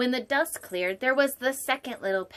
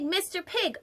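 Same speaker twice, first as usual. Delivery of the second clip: softer second call; 7 semitones higher than usual. Acted. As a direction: repeat the call more gently. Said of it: "I called".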